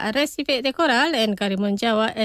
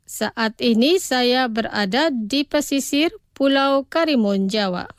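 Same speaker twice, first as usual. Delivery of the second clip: pronunciación despacio. Shown as a demonstration. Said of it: "Los pronunciaré despacio". (pronunciado despacio, para repetir)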